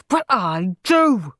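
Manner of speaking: short, slow irritated snap; snapped. A narrator's reading. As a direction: shut Peter down. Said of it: "snapped Henry".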